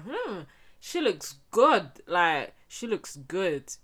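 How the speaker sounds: slow, loud, appreciative drawl; imagined admirer's approval. Retold or imitated. Onlookers admiring the made-over girl, imitated approval. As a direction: stretch it out as if admiring someone.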